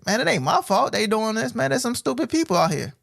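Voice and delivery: imitating a listener shrugging it off; mock excuse. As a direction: brush off the blame. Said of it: "the first thing you gotta say is".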